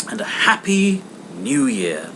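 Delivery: bright nephew's farewell; hopeful nephew. Acted. Nephew calling after Scrooge.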